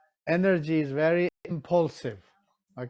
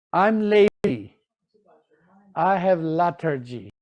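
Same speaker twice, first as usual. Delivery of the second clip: lazy pig. Retold or imitated. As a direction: drag the words like a lazy pig. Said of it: "The pig says".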